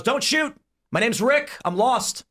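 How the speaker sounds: high, pleading lost man; scared stranger. Retold or imitated. Lost man Rick pleads with the armed survivor, high and scared. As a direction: beg them not to shoot, hands up. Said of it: "And he goes".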